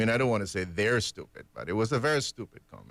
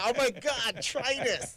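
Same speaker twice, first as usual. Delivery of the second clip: high, mock-disgusted pitch; disgusted offer; 10 semitones higher, much slower than usual. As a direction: push the nasty drink on a friend. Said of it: "but if it, yeah".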